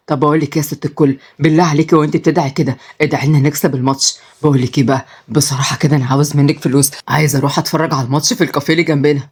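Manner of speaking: put-on low pleading young man. Marwan asks for money.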